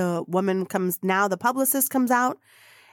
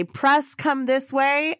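calling out; 6 semitones higher, much slower than usual. Retold or imitated. Staff call out to press.

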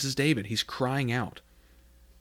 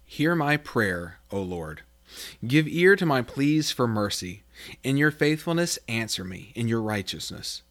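earnest Bible reading from the pulpit; scripture reading. Acted. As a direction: read the prayer aloud with reverence. Reads Psalm 143 aloud.

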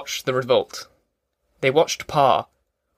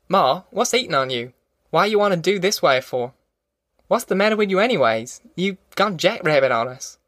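higher-pitched, lightly voiced baffled son; exasperated Tom; 5 semitones higher than usual. Tom asking Ma what's eating her, mild exasperation. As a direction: press her for an explanation. Tom challenges his mother.

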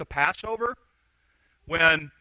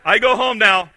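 loud, raised movie-line impression; Forrest Gump; 3 semitones higher, 10 dB louder than usual. Runner stops and tells his followers, loud character impression. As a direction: belt out the half-remembered film line. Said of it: "he goes, I think, what's his line?".

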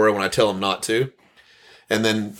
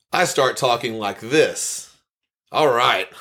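slower, more projected podcast-host voice; recording voice; slower than usual. Shown as a demonstration. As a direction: switch into on-air delivery, stretched out. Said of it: "do a complete change when I start recording".

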